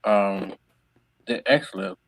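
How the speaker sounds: crunching ice while talking; ice in mouth. Real, not acted. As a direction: talk around a mouthful of ice. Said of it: "Please forgive me crunching the ice".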